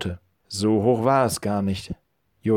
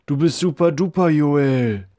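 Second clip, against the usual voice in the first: put-on cheering boy; 3 semitones higher than usual. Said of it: "rief Levi seinem Freund zu".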